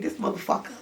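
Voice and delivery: soft voiceless whisper; whispered sad curse; bitter under breath. Retold or imitated. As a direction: mutter it to yourself, defeated. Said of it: "I was like".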